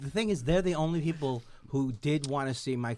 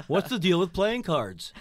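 Seinfeld impression; 2 semitones higher than usual.

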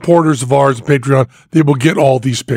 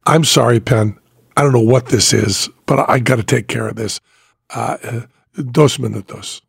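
a hint of a lower, sheepish apology; sorry to have to step away, trailing off; apologetic; 4 semitones lower than usual. Jandro apologizes to Penn, stepping away, lightly sheepish. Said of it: "very apologetically".

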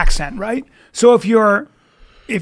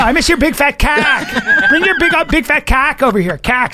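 higher, laughing imitation of her; retelling her line while cracking up; hammed-up girl's voice, laughing; mock Chicago girl; 6 semitones higher than usual. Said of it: "I was like".

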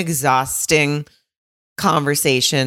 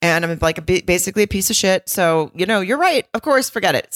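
high sarcastic self-pity; mocking self-pity; 4 semitones higher, faster than usual. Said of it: "She goes".

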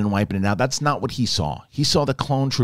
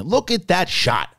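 impressed; 7 semitones higher, slower than usual. Real, not acted. First look at the shot.

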